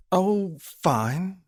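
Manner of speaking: high, breezy fake fine; lying. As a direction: brush it off with a lie. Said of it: "she lied".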